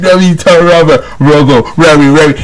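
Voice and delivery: playful mock-rap rhythm; half-rapped, teasing imitation; imitating a rapper. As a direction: mimic the caller's rap. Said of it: "you're sounding like you're rapping now".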